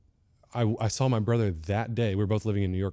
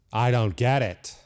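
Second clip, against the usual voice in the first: exasperated teacher; slower than usual. Retold or imitated. Teacher's blunt verdict acted out.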